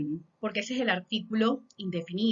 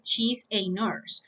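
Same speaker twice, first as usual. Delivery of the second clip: slow model sentence; slower than usual. Shown as a demonstration. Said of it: "Yo también puedo pronunciar".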